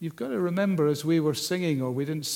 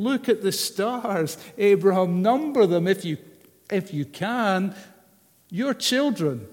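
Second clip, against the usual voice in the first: God urging Abram; 3 semitones higher, 4 dB louder than usual. Retold or imitated.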